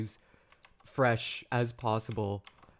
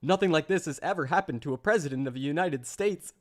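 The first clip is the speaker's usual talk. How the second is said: mock Trump read. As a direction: read it like an indignant Trump, overdoing it. Reading Trump's statement mockingly.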